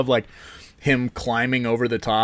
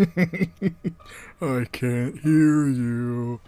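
slow, drawn-out action hero voice; a hint of a stiff Russian tough guy; Dolph Lundgren; 2 semitones higher, much slower than usual. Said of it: "That was a terrible Dolph Lundgren".

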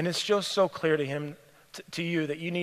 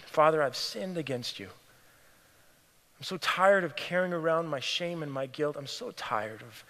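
leading prayer; 2 semitones lower than usual. Acted. Preacher modelling the younger brother's prayer, earnest.

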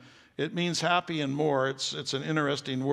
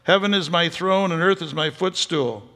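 voice of the Lord; 2 semitones higher, 6 dB louder than usual. Acted. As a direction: declare it like God speaking from the throne. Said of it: "The prophet Isaiah says".

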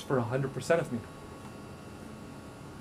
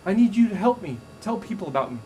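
high, pleading plea for help; 6 semitones higher than usual. Retold or imitated. God begging Nick for help, high and pleading. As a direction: beg Nick for help in a raised voice.

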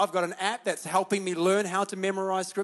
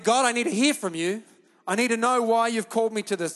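retold urgent prayer; 5 semitones higher, 7 dB louder than usual. Retold prayer at preaching force.

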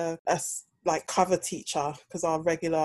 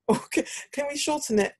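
higher-pitched mock request; put-on higher questioning voice; imitating others; 9 semitones higher, faster than usual. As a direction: lightly mimic someone angling for a shortcut. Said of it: "They'll be like".

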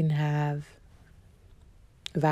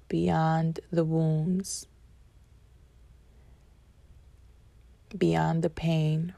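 inspirational address. Acted. Slow inspirational podcast opening.

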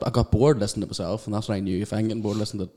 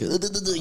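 imitated stutter; 10 semitones higher than usual. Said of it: "I start going like".

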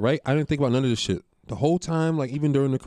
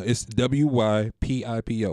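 slow spelling out; slower than usual. Shown as a demonstration. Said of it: "That's how we say white people".

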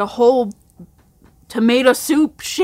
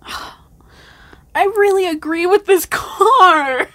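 sighing whisper; 6 semitones higher, 5 dB louder, slower than usual. Real, not acted. Tipsy card game turn.

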